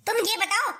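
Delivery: harsh, rising scold at a freeloading son; angry scolding. Acted. Mother scolds son over jacket. (गुस्से में डाँटते हुए)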